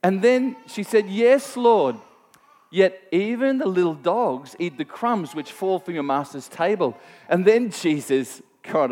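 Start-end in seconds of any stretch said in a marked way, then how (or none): 1.1-7.0 a touch higher and louder, humble plea; pleading woman. Acted. Mother answering Jesus about the crumbs, a mildly raised plea. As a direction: press her case gently but urgently.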